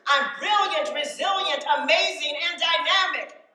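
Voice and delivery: owning the words with force. Shown as a demonstration. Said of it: "put a little bit more force into that".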